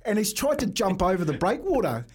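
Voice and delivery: telling it while cracking up; laughing through story. Real, not acted. Funny story climax.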